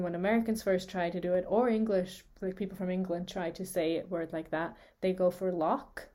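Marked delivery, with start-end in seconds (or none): 5.5-6.1 "lock" ended with a hard K. Shown as a demonstration. Teacher shows how beginners try it, hard K. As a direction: say "lock" with a plain K at the end. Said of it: "and they say a K".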